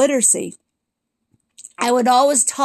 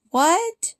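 high, stunned "what"; disbelieving rising what; surprised; 7 semitones higher than usual. Real, not acted. Reacting to the mom's comment.

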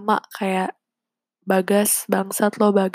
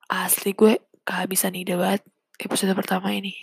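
whispering. Real, not acted. Unsure what to talk about.

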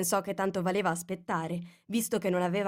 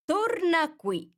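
calling her back; 11 semitones higher, 4 dB louder, much slower than usual. A narrator's reading. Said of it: "la richiamò il bruco".

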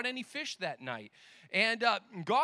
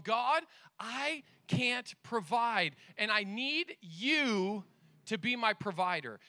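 slow, weighted plea to God; deliberate, understated pleading; retold earnest prayer; slower than usual. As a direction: pray it slowly, word by word. Retells his own desperate prayer.

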